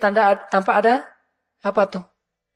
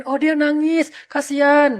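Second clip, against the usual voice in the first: lightly voiced sympathetic man, a touch higher; mock pitying man; 5 semitones higher, slower than usual. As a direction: play a man who pities her, mildly. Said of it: "Kalau laki-laki ngebayangin". (laki-laki yang iba, sedikit dibuat-buat)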